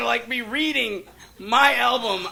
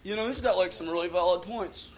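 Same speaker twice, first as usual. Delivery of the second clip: softer, lower mock concession; won over; 6 semitones lower, 6 dB quieter than usual. Left-winger watching Oliver North, suddenly meekly persuaded. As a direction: sheepishly drop the rant and come round.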